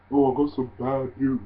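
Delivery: put-on half-hearted British accent; attempted British accent. Fan mimicking a wrestler's catchphrase, attempted British accent. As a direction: have a go at sounding British. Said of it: "trying to do a British accent".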